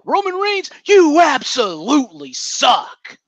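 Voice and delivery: high-pitched mock insult; mocking high impression. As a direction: squeal it like a mocking fan. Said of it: "to quote my favorite superstar of all time".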